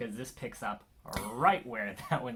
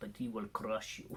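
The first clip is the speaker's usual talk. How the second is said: hushed, put-on Russian accent, menacing; 7 dB quieter than usual. Recalling the Russian villain from Creed II, the speaker quotes him in a Russian accent. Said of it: "*In Russian accent*".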